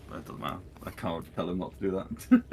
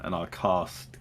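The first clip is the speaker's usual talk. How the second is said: ordinary talk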